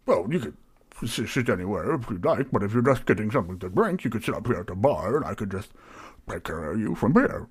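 fussy, lilting host patter; mildly flustered innkeeper being helpful; obliging tavern keeper. Acted. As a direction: accommodate the customer with nervous politeness. Plays Barry, flustered tavern keeper.

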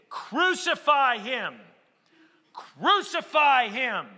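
slow, loud chant of the mob; crowd demanding. Retold or imitated. Chief priests demanding of Pilate, slow loud mock chant. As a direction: drag out each word like the baying priests. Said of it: "they say".

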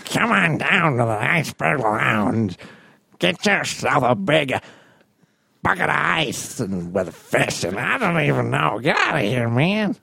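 creepy Penguin voice. Acted. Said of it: "good, creepy, short, fat guy voice".

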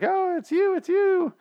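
high-pitched hammed-up wife voice; mock wife. Retold wife greeting her dead husband on the porch, hammed-up high voice.

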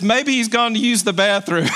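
lightly acted jeer; mocking. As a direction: needle them playfully, close to breaking into laughter. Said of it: "He is just poking fun at them".

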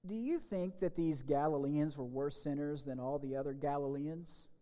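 measured, solemn Bible reading; solemn lectern reading of the gospel; scripture reading. Acted. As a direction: read the gospel to the congregation. Reads scripture aloud in service.

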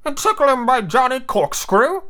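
high, slow sidekick voice; high-pitched pathetic henchman; pathetic Smee. Acted. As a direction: draw it out high and hopeful. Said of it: "asked pathetic Smee".

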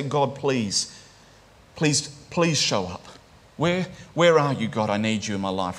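understated, halting plea to God; dependent plea. Acted. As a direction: plead gently, pausing after each please. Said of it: "That's a call of dependence".

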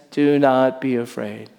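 quiet, gentle reassurance; softly comforting angel; soft and gracious. Shown as a demonstration. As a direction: ease her fear softly. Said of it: "as graciously and as softly as possible".

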